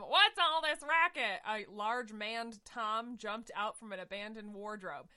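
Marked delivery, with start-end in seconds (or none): 0.0-1.4 higher, louder, slow hammed-up grumble; a woken cat scolding; grumpy tomcat. Tugger scolding noisy cats, hammed-up grumble.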